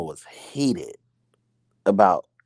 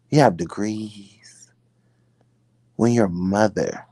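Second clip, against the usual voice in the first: stern questioning. Acted. Acted mother confronting her daughter.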